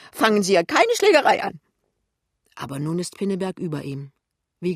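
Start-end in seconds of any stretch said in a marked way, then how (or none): 0.1-1.6 high, very loud protest; alarmed shouted warning. Acted. Colleague warning Pinneberg off a brawl, shrieking loudly. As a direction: cry out to stop a fight.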